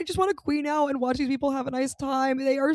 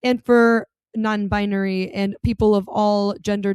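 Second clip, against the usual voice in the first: slow, drawn-out listing; 4 dB louder than usual. Retold or imitated. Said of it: "She said".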